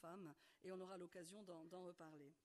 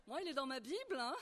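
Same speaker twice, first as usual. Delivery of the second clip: laughing; 3 semitones higher, 8 dB louder, faster than usual. Real, not acted. Joking about her own Bible.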